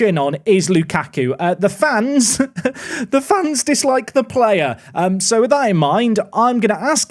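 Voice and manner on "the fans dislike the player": laughing. Real, not acted. Laughing at unpopular player.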